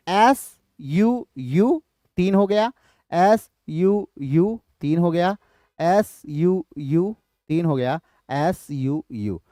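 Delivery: slow, evenly spaced beats, letter by letter; measured counting. Shown as a demonstration. Teacher counts dactylic feet for the class, slow and measured.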